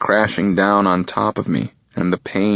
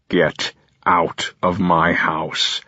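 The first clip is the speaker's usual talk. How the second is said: low stern voice; much slower than usual. Acted. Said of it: "in a low, stern voice".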